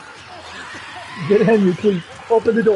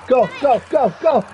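frantic go-go-go; urgent yell; 6 semitones higher, slower than usual. Real, not acted. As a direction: shove them along with your voice. Urging teammate in game.

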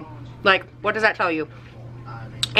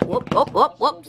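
playful whoops; 5 semitones higher than usual. Acted. Playful noises at the dog.

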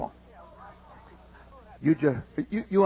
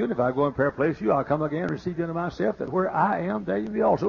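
rattled off by rote; 3 semitones lower, 5 dB quieter, much faster than usual. Shown as a demonstration. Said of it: "We all know that in the mind".

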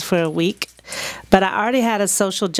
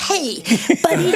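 put-on white girl voice; 9 semitones higher than usual. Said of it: "In my best white girl voice".

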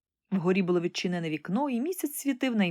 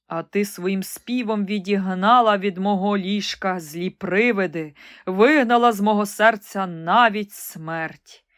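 slow, heartfelt, a touch louder; the recovered emperor thanking the bird; grateful emperor; 4 dB louder, slower than usual. Acted. Grateful emperor addresses nightingale. (вдячний імператор)

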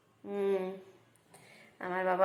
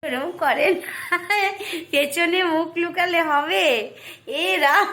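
higher, louder, laughing tease; playful teasing; 9 semitones higher, 6 dB louder than usual. Real, not acted. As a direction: tease her gleefully as she hides. Teasing daughter hiding face. (মুখ লুকানো মেয়েকে হাসতে হাসতে খেপানো)

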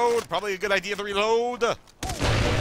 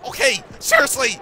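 much higher loud outburst; exasperated shout; 14 semitones higher, 6 dB louder than usual. Real, not acted. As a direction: yell it in disbelief. Exasperated at teammate.

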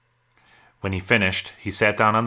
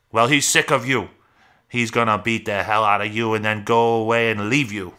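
raised, higher scolding voice; taunting threat; 3 semitones higher, 4 dB louder than usual. Acted. Rabbit warns Lenny that George will leave, harshly taunting. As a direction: hammer the threat home.

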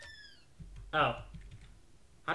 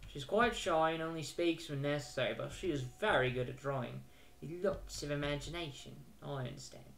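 lightly voiced British game characters; British accent. Orphanage staff describing a shy girl, British accent. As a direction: speak politely in a put-on British accent. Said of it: "I don't know why I made everybody British".

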